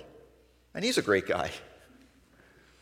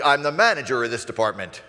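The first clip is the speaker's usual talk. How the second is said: defensive retort; 5 dB louder, faster than usual. Retold or imitated. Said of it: "your response might sound like".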